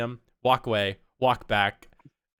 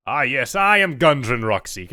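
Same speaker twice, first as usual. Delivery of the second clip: lightly voiced dwarf; a hint of a hearty dwarf; Gundren's voice; 6 dB louder than usual. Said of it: "I think this was his voice".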